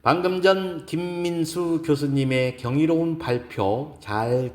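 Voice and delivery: composed, courteous formal speech opening; lightly voiced lecturer addressing an audience; poised woman lecturer. Gives a lecture in story. (여유롭고 정중한 강연 말투)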